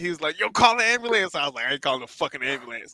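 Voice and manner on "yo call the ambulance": play-acted, frantic, high, panicked scream. Retelling what a man with a cramp screamed, retelling his screaming. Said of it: "he starts screaming louder".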